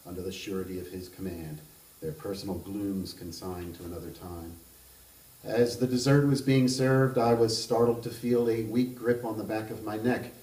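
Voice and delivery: measured reading of a literary novel aloud; even, unhurried narrator voice; story narration. A narrator's reading. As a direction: read it like an author at a book event.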